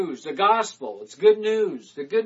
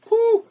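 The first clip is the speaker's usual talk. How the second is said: excited whew; 10 dB louder than usual. Real, not acted. Excited about reaching airwaves.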